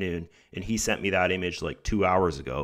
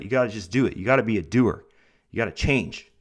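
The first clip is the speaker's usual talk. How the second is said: motivational speaker; faster than usual. Shown as a demonstration. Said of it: "I sound like, like Tony Robbins or something".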